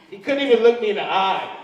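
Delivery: ordinary talk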